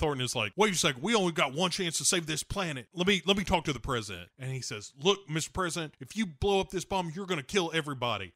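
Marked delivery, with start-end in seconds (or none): 0.6-4.3 raised pitch, hurried mock plea; urgent plea. Acted plea from mission control. 5.0-8.3 higher-pitched mock urgent warning. Acted warning to the president.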